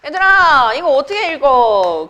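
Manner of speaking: imitated senior hollering to the group; senior calling out. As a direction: put on a senior's loud classroom call. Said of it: "나 어떤 선배가".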